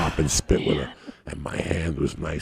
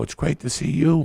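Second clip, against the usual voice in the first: high-pitched, gushing greeting; delighted reply; 10 semitones higher, 4 dB louder than usual. Retold or imitated. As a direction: play up the pleasure of a reunion. Acts out his gushing reply to her.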